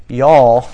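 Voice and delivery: y'all said loud and slow; a punched, drawn-out "Y'all" in Southern style; stressed y'all. Acted. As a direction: lean hard on "Y'all" like a southern address. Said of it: "And Jesus says".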